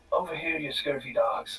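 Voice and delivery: mild Irish accent, pirate-style call.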